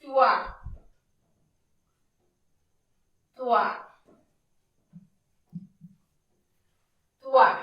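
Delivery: teacher repeating টুয়া clearly; syllable drill. Shown as a demonstration. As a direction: sound out টুয়া with a pause between each. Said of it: "বটাকে আমরা উচ্চারণ করব".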